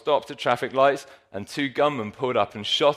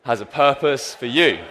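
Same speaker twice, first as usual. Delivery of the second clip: slow declaration; 4 dB louder, slower than usual. Shown as a demonstration. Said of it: "give them a little nudge and say".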